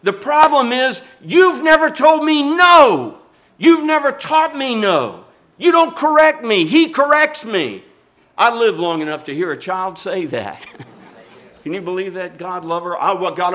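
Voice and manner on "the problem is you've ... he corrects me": retold yell. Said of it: "this is what the child told the mother".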